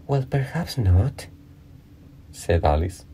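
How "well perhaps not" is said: gently drawn-out, higher soothing tone; mildly soothing, slow and high. A narrator's reading. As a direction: placate slowly, voice lifted. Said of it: "in a soothing tone".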